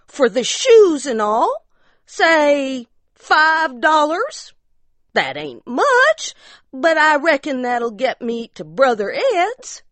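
high-pitched insistent mountain wife; high demanding wife. Acted. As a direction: press your claim, high and sharp. Ariella voiced.

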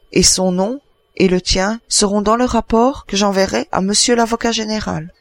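a hint of a chatty adjudant reporting; adjudant satisfait. The adjudant tells his tale. (adjudant qui raconte, voix plus haute)

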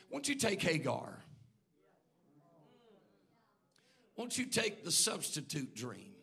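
soft, low coaxing plea; quiet coaxing. Acted. Sarah quietly coaxing Abraham to take Hagar, soft plea. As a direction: coax your husband gently toward the easier path. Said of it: "And Sarah says".

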